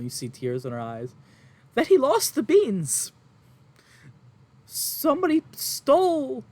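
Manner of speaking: high, loud, tearful mother pleading; distraught farm woman. Acted. Farm woman to adventurers, upset and near tears. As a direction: play the frantic farmwife near tears.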